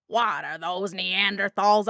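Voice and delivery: slow, nasal cartoon squid voice; Squidward voice. Shown as a demonstration. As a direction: drag it out like a grumpy cartoon squid. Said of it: "if you prep with a k".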